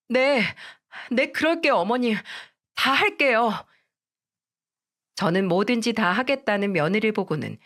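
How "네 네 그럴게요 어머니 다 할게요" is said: put-on higher, tearful-sounding young wife begging; a young wife pleading, voice pitched up; pleading daughter-in-law. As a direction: beg your mother-in-law not to force a divorce.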